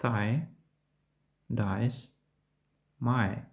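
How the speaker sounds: "Thigh", "Dies", "My" with A gliding into Y; дифтонг ай. Shown as a demonstration. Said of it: "Звучить подібно до I". ("Thigh", "Dies", "My" з переходом від А до Й)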